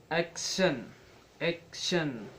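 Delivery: "action" with a strong first syllable; stress on first syllable. Shown as a demonstration. Teacher demonstrating syllable stress, first syllable of "action" strong. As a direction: hit the start of "action", second syllable lighter but clear. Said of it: "Say the first syllable strongly".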